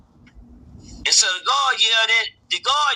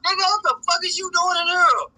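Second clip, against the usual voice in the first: shocked yell; 8 semitones higher than usual. Retold or imitated. Repeats shocked question to son.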